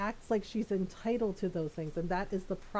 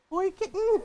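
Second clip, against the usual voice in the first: playful exclamation; 11 semitones higher, 7 dB louder than usual. Acted. Repeating chat joke.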